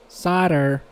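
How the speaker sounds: Southern Louisiana twang on "Solder" as "sodder", t dropped to a flap; mock Louisiana accent. Streamer repeating solder in a joking Louisiana accent. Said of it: "Louisiana accent".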